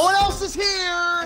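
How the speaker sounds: panicking gamer. Real, not acted. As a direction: yell it out at the empty point. Teammates missing, frustrated gamer.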